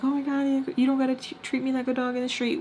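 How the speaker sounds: high-pitched, lightly whiny imitation; embarrassed boyfriend. Boyfriend embarrassed by her, lightly imitated protest. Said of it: "and he's like".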